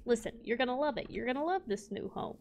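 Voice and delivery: softly coaxing sales pitch. Pretend. Player selling cows on their new home, coaxing. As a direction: gently talk them into it.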